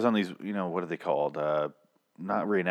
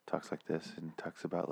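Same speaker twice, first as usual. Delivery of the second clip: soft radio voice; 3 semitones lower, 14 dB quieter than usual. Retold or imitated.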